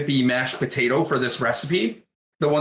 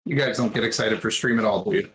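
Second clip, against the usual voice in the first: fast, dry sarcastic jab; 4 semitones lower, faster than usual. Pretend. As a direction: tease them with mock disappointment. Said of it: "I'm being sarcastic".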